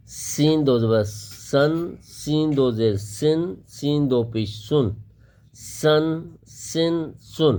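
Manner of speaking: سین read soft; teacher drills soft سین. Shown as a demonstration. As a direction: say سن light and soft. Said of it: "اس کو نرم پڑھیں گے".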